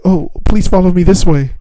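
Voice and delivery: high-pitched, polite staffer imitation. Staffer leads patient to back room, politely.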